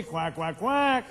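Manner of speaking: mock the excuse with duck quacks; duck quacking. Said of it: "They go quack".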